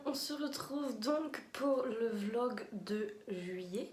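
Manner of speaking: rough, worn-out voice; tired hoarse voice after a festival. Real, not acted. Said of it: "j'ai une voix pourrie de chez pourrie".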